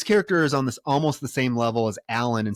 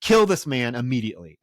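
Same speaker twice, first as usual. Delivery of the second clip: mock exasperated plea; 5 dB louder than usual. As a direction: beg theatrically for it to end. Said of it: "It's like".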